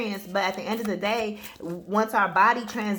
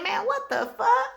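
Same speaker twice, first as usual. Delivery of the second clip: exasperated outburst; 11 semitones higher than usual. Retold or imitated. Retold frustrated outburst.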